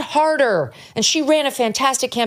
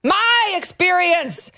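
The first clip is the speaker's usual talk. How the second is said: mocking high-pitched whine; 8 semitones higher, much slower than usual. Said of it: "mocking author".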